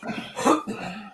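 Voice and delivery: eerie breathy cough; ghostly cough. Real, not acted. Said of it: "you sound like a frickin' ghost".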